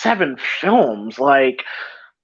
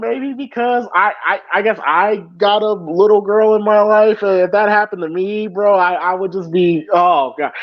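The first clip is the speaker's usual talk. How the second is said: tearful; 3 semitones higher than usual. Real, not acted. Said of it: "Just let it out".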